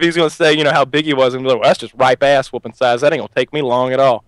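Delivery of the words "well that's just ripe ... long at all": lightly put-on redneck accent; Roy D. Mercer. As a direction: imitate a cocky redneck prank caller. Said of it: "redneck accent".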